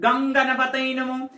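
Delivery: গঙ্গানাপাতায় run together with NG instead of M; wrong mantra pronunciation. Shown as a demonstration. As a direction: chant গঙ্গানাপাতায় on one level note, NG for the M. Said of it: "এটা ভুল উচ্চারণ করলে".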